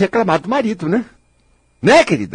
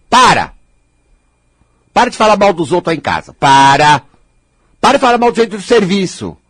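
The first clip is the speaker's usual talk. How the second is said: firm command; 3 dB louder than usual. Real, not acted. Commands listeners to stop.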